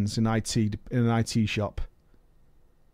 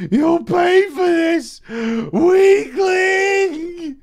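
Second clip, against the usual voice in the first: high, loud, slow villain threat; sputtering foiled villain; 6 dB louder, much slower than usual. Retold or imitated. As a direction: spit out a beaten villain's threat. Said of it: "She muttered out angrily".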